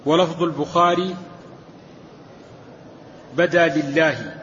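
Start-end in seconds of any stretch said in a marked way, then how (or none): 3.4-4.3 "لله" with a kasra under the lam; careful vowelling. Shown as a demonstration. Reader giving al-Bukhari's wording, careful vowelling. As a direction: read "بدا لله" with lillahi clearly vowelled. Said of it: "وكسر اللا-، لام الجلالة".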